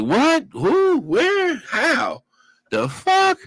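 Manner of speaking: high, rapid-fire questions in shock; a retold squawk of total disbelief; stunned disbelief. Hearing the robbery charges.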